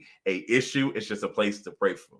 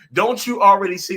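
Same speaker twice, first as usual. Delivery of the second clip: higher and louder, pleading disbelief; exasperated outburst; 8 semitones higher, 6 dB louder than usual. Retold or imitated. To an oblivious friend, higher and louder exasperated repeat. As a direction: push it up again, even more fed up.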